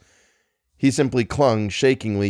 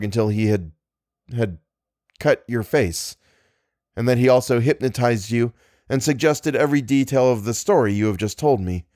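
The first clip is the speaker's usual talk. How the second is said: calm rational friend. Acted. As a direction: reason gently with a frightened man. Algernon calmly explains.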